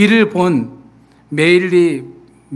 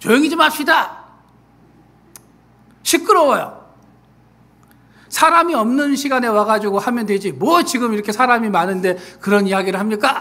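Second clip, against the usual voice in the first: high, loud, angry shout. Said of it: "라고 이렇게 소리를 지르는".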